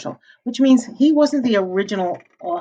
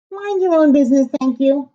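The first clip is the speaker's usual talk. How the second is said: snippy pig; 6 semitones higher, 5 dB louder than usual. Acted. The pig snubs the man.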